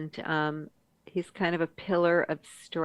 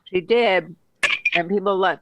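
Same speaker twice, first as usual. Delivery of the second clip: talking around an ice cube; words slurred by ice in mouth; 2 semitones higher, 5 dB louder than usual. Real, not acted. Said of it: "it was ice cube".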